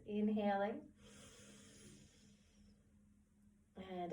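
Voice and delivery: calm, unhurried relaxation guide; guided breathing. Acted. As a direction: lead the breath gently, with long pauses. Guides slow breathing exercise.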